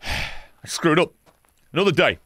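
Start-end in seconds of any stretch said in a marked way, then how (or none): 0.0-1.1 slow whispered admission; defeated sigh. Real, not acted. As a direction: sigh it out, beaten. Regrets mistake.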